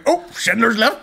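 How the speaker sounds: high, loud mock laughing outburst; imitating a laugher. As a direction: blurt it out, imitating a friend cracking up. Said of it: "laughing away".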